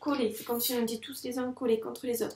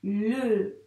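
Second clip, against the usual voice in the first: "Le" drawn out as the pen moves; writing the word together; dictated while writing. Shown as a demonstration. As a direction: say it slowly while tracing. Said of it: "Go, on l'écrit ensemble".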